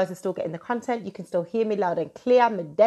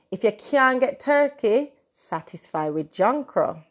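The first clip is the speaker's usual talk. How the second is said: Jamaican patois; 3 semitones higher than usual. Acted. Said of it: "I love the way I just switched".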